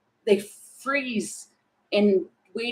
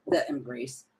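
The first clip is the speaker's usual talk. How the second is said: a soft, breathy whispered echo; 9 semitones lower, 9 dB quieter than usual. Real, not acted. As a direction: whisper the words embrace to yourself. Repeats phrase, then whispers it.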